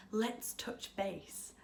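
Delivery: slow, mocking corporate-speak; mock office jargon. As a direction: drawl it like a smug manager. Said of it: "You've gotta say things like".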